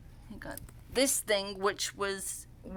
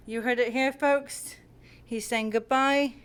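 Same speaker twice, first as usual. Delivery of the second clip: announcer voice; 3 semitones higher, 6 dB louder than usual. Real, not acted. Announcing cat's goodbye to fans.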